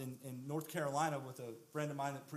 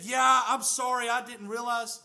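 flustered apology; 6 semitones higher, 9 dB louder than usual. Retold or imitated. Friend's flustered apology retold.

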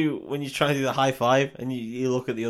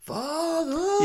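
a huge, high theatrical "Father!"; booming cry. Retold or imitated. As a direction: give it the beans, big and high. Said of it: "so it's gonna mean".

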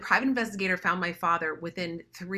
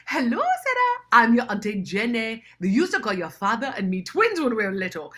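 higher, louder, cheerful greeting; eager African auntie; 4 semitones higher, 6 dB louder than usual. Retold or imitated. Auntie Jenny phones Sarah, higher and cheerful. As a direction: introduce yourself proudly, beaming.

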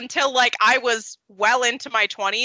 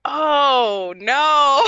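laughing cry; 5 semitones higher, 4 dB louder than usual. Real, not acted. Laughing reaction to realization.

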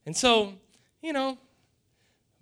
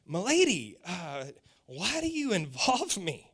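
polite address; 4 semitones lower, 6 dB quieter than usual. Retold or imitated. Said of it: "almost like saying milady".

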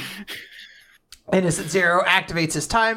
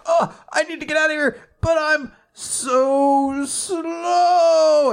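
high mock panic, a lightly put-on fleeing voice; panicked goon; 11 semitones higher, 4 dB louder, slower than usual. Fleeing guy whining about being slow in a high mock voice. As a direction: squeak out the panic while running. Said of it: "He's like".

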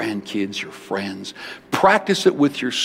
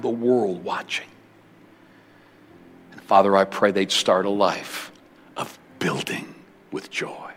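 closing prayer. Acted. Prays over the congregation.

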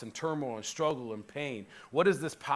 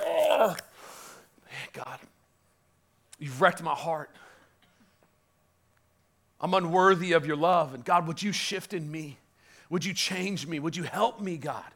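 humble prayer. Retold or imitated.

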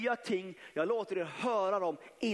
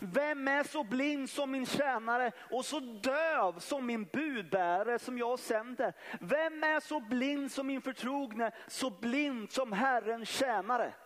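preaching scripture; 4 semitones higher than usual. Acted. Reads scripture with rising force.

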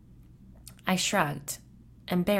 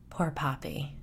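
whispered; 6 dB quieter than usual. Acted. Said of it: "she whispered".

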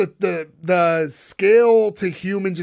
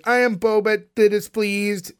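lightly voiced alien baby; a hint of a robotic alien introducing himself; Bobit's alien voice; 3 semitones higher, slower than usual. Host quoting the alien baby meeting the nanny, lightly robotic alien voice. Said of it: "enjoy you doing the voice".

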